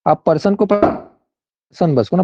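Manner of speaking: slow, deliberate words; slow right down so every word lands; speaking slowly. Real, not acted. Teacher slows down after students say his voice is unclear, very slow. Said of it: "आराम से बोलता हूँ मैं".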